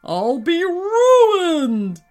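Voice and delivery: high, loud, drawn-out wail; desperate yell. A narrator's reading. Giant alien sees the business collapsing, yelling. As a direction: yell it slowly in giant despair. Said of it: "yelled the giant alien".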